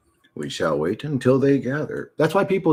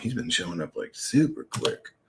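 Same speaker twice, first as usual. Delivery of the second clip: whispering; 6 semitones lower, 6 dB quieter than usual. Real, not acted. Whispered aside.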